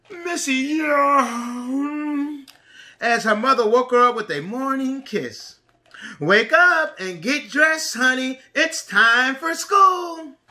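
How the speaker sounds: slow, lively storybook reading; reading to a toddler. A narrator's reading. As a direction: read it like story time for little ones. Reads picture book to preschoolers.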